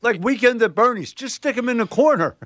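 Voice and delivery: high, laughing joke. Real, not acted. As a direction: crack up at his own joke. Joking, laughing.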